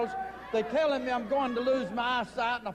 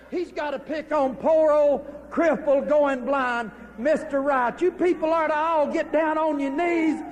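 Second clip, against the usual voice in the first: angry shout at crowd; 6 dB louder than usual. Acted. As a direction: bellow it to shame the whole crowd. Manager yells at the crowd.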